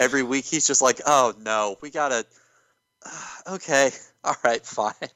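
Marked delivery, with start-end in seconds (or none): 1.1-4.9 put-on weary resignation, slower pace. Picturing a wrestler put in bad angles every week, mock-weary and just over it. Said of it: "is just over it".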